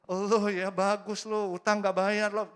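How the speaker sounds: loud, slow sarcastic jab; mock confrontation. Confronting the one who owes you money, slow loud sarcasm. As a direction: taunt the debtor slowly and loudly.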